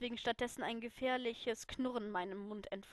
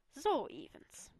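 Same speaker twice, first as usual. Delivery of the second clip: whispered; 3 semitones higher, slower than usual. Acted. Potter whispers to Lily, trap set. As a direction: lean in and whisper it slowly.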